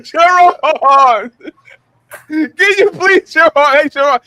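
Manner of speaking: stretched-out whiny plea, hammed up; playacted pleading call; mock pleading. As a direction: beg a friend with drawn-out, put-on distress.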